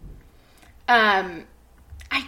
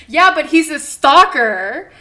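loud, slow, emphatic objection; exasperated protest; 5 semitones higher, 14 dB louder, slower than usual. Retold or imitated. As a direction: insist he's a stalker. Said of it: "he was like".

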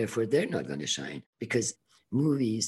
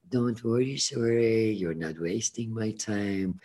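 calm reassurance. Retold or imitated. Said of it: "very, very calmly".

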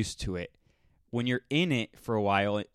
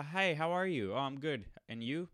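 soft, rote mock pleasantries; uncaring small talk; 4 semitones higher, 6 dB quieter than usual. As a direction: imitate an empty polite greeting. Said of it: "No one really cares".

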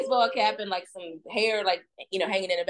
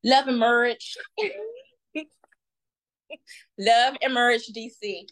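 Irena voice. Pretend. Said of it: "I'm gonna do my Irena voice".

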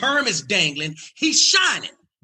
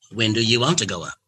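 lower, calm and in charge; low cool Katt Williams voice; 4 semitones lower than usual. Retold or imitated. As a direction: ask like the man running the night. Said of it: "Katt speaking".

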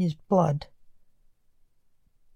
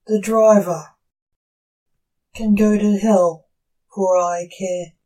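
angry outburst; 5 dB louder than usual. Acted.

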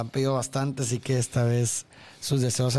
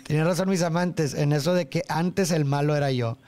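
reading lyrics. Shown as a demonstration. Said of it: "Y luego".

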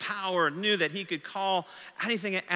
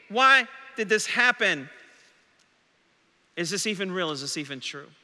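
voicing a doubter; 3 semitones higher than usual. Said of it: "this is how you talk".

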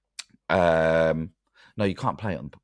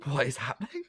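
put-on accent slipped into Scottish; botched Norwegian turning Scottish; failed accent drifting towards Scottish; Sean Connery; 4 dB quieter than usual. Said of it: "You've got Sean Connery".

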